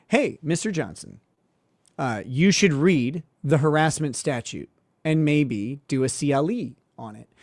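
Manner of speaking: a calm quote to the other lawyer; calm, normal voice. Retold or imitated. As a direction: keep it level and unbothered. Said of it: "in a very calm, normal voice".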